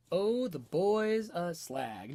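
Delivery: put-on "Oh, the boy's a slag" slowed down to show its rise and fall; exaggerated spoken tune. Shown as a demonstration. Teacher showing where speech goes up and down, exaggerated intonation on "Oh, the boy's a slag". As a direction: stretch out the ups and downs of "Oh, the boy's a slag". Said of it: "Notice where you go up and where you go down".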